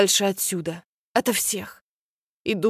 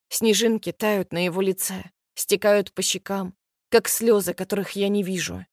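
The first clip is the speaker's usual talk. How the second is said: ordinary delivery, nothing marked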